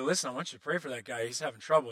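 lightly voiced divine instruction; voice of God. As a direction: calmly set them straight. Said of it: "And He's gonna tell you".

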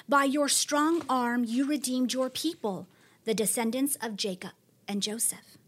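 building awe, some lines whispered, some lines slow; dramatic psalm of praise. Acted. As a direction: proclaim God's mighty works with awe.

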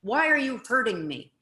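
mock hurt whining; hurt, pleading complaint; upset. Shown as a demonstration. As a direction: play it wounded and upset. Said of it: "I could get all upset and say".

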